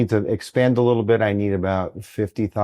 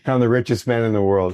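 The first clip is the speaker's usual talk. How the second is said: laughing. Real, not acted. Laughs while saying it.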